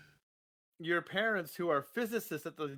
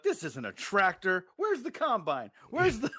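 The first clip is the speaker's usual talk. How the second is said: put-on country kid voice; 5 semitones higher, 4 dB louder than usual.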